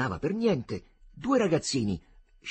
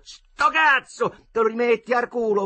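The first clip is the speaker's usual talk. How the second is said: cheeky retort; 10 semitones higher, 7 dB louder than usual. Acted. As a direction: fire it back fast. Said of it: "fecero pronti quelli". (risposta sfacciata gridata)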